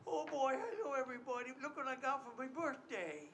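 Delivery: put-on a light little-boy voice greeting everyone; mean little kid. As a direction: play a bratty little boy. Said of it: "Junior, the mean little kid".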